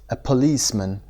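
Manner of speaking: "policeman" with weight on LICE; stress on second syllable. Shown as a demonstration. Teacher shows students the stressed LICE in "policeman". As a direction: lean on the middle of "policeman". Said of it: "قسمت دوم".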